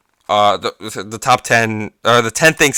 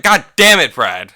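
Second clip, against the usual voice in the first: mock angry outburst; 3 semitones higher, 6 dB louder than usual. Angry about Brad losing the pin.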